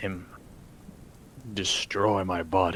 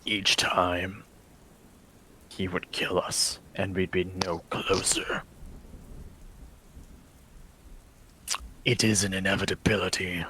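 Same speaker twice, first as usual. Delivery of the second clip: brooding vampire lord. Acted. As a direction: speak as a weary, cursed lord in a hushed voice. DM voicing vampire lord Vladimir.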